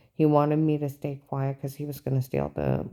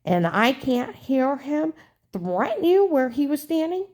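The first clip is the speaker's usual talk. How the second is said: high, slow, pushy imitation of the agent; menacing agent voice; 9 semitones higher, 4 dB louder, slower than usual. Agent threatening a scared informant, high pushy mock menace. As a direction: lean on her like an interrogating agent. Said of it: "He said".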